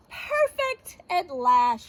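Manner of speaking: slow, drawn-out proud declaration; declaring. Acted. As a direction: declare it with a flourish, taking your time. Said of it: "she declared".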